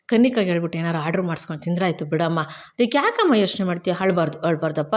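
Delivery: gently soothing, as if reported; lightly acted fatherly comfort; consoling. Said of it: "ತುಂಬ ಚೆನ್ನಾಗಿ ಸಮಾಧಾನ ಮಾಡ್ತಾರೆ".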